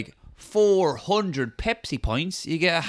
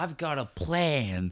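scheming voice; 8 dB quieter, slower than usual. Retold or imitated.

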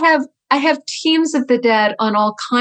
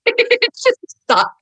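It just sucked pitched high and slow, stretched out; high drawn-out; slower than usual. Acted. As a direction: wail the word sucked high and slowly in dismay. Repeats verdict on cover.

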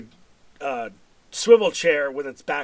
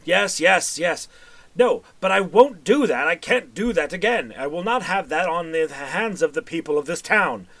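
hollering man; 3 semitones higher than usual. Acted. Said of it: "a man, uh, hollering".

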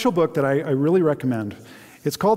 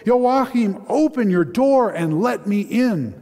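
bellowing demand; 8 semitones higher, 4 dB louder, slower than usual. Acted. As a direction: pound the demand through the door. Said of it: "he bellowed".

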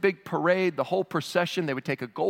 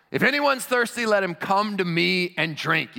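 high, raised voice calling to the crowd; loud proclamation; 4 semitones higher, 3 dB louder than usual. Acted. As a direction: proclaim it urgently, stretching the invitation. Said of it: "shouts in a loud voice".

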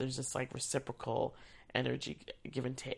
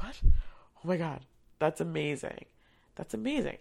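excited; 3 semitones higher, 5 dB louder than usual. Retold or imitated. Thrilled reaction to actor's story.

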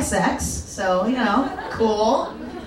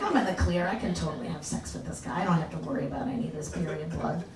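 confident inner voice; 4 semitones lower, 10 dB quieter, faster than usual. Retold or imitated. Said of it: "I was like".

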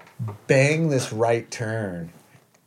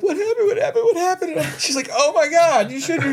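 much higher, frantic repeated question; alarmed wife; 5 dB louder, faster than usual. Retold or imitated. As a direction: play the worried wife in a high panicky voice. Wife alarmed seeing him crying.

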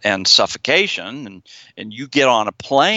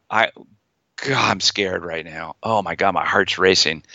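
feared voice; 5 semitones lower than usual. Shown as a demonstration. Therapist demonstrating the patient's feared inner voice, mildly scared. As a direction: play the frightened self, understated. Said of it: "you can hear the change in my tone of voice".

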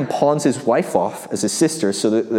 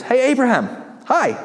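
casual God; 11 semitones higher than usual. Acted. God greets Abraham casually.

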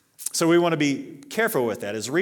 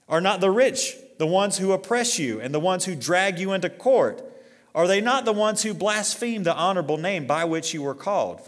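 high, loud indignant questions; preaching James to the congregation, high and loud; rising preaching; 6 semitones higher, 4 dB louder than usual. Real, not acted. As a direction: hammer the rich with the questions. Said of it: "say this".

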